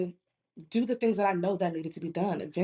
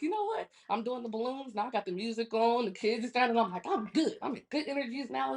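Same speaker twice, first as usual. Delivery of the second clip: higher-pitched pumped-up self-talk; getting hype; 4 semitones higher than usual. Retold or imitated. Woman after Red Bull, retelling herself getting hyped. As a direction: act out your own rising hype. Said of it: "I start getting hype".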